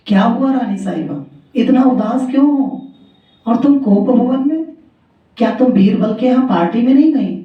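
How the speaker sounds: a worried husband gently probing; concerned king. Acted.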